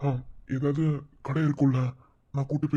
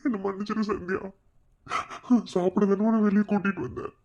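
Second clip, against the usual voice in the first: crying; 4 semitones higher than usual. Acted. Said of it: "ஏன் மாமா அழுகுற?".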